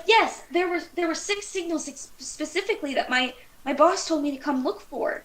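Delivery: lightly voiced, pleased alien; excited alien. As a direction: report a find with halting eagerness. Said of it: "very excited about the fact that he found".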